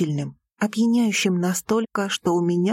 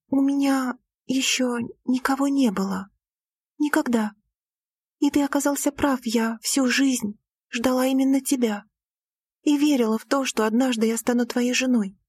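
put-on a young woman's voice, lightly higher; Lira's voice; 5 semitones higher than usual. A narrator's reading. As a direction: voice the heroine, a touch higher. Lira's confession. (голос героини, чуть выше)

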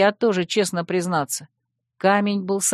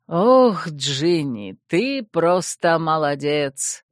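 exclaiming; much slower than usual. Acted. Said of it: "воскликнул Аладдин".

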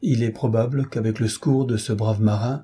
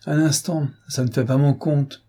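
a cheerful, higher protest, mock-offended; gaily; 4 semitones higher than usual. Governess teasing the girl about the scarred suitor, gaily. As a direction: toss it off brightly, playfully refusing. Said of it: "dit gaiement la gouvernante".

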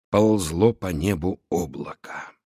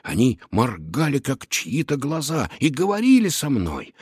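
shaken tearful witness; 2 semitones higher than usual. Acted. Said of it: "Шустрик волновался".

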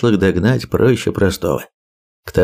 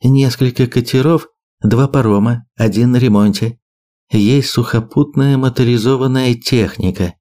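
measured briefing, slightly raised voice; lightly voiced map briefer; 3 semitones higher than usual. Birger lists island sites for his allies, lightly voiced briefing. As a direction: lay out the sites item by item.

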